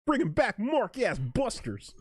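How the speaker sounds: high, put-on cartoon accent; Mimi Miney's accent. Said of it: "Mimi Miney's accent now?".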